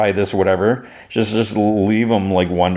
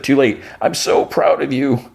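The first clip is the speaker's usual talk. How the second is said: higher, heartfelt mock gushing; retold motherly pride; 5 semitones higher than usual. Retelling Lois hugging her son, higher-pitched proud gush. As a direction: lightly act out a proud mom, drawing it out.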